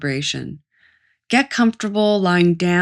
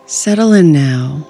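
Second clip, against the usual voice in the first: guided meditation; 2 semitones lower than usual. Acted. Guide leading a listener to notice anxiety in the body, guided meditation. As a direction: ease them gently into rest, unhurried.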